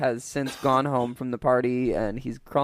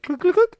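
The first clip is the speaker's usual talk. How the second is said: very high, louder mock click noises; imitated clicking; 8 dB louder than usual. Acting out the back-brace scene, high squeaky clicks. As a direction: click it out like a ratchet wheel. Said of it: "he's like".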